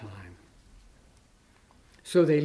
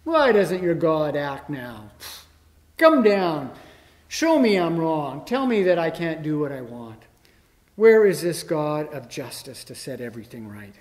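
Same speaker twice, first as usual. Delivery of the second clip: modern scoffer; 4 dB louder than usual. Retold or imitated. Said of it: "the scoffing we often hear".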